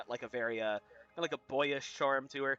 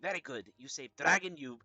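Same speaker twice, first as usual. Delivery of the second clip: lightly voiced kobold; a hint of a creature speaking broken speech. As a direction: speak haltingly as a grateful kobold. GM plays the kobold.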